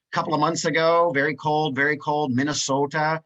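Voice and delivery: lightly put-on Minnesota accent, stretching the vowels. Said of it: "that little Minnesota accent I put in there".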